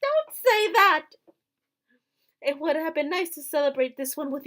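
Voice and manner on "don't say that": high, slow anguished cry; pained protest. Acted. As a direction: draw it out in grief. Character protesting Rod's farewell.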